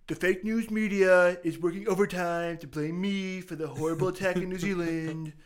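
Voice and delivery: mock Trump reading his tweet; half-hearted Trump voice, laughing through; Donald Trump impression. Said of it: "I got another one".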